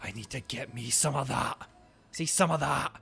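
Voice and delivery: put-on savoring, drawn-out Scottish old man; put-on Scottish relish. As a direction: lay the Scottish accent on thick. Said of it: "That's very Scottish".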